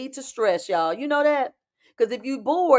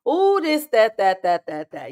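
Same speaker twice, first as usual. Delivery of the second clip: mock impatience; 4 dB louder than usual. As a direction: grumble like someone who can't wait, lightly hammed-up. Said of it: "how y'all get when y'all impatient".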